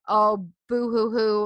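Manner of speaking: mock whimpering boo hoo; slow, whiny mock sob; fake crying. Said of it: "other people will say".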